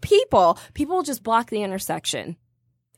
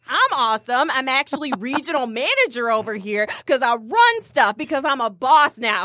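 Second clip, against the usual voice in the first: fake-friendly gloating. Imagined gloating at old rival.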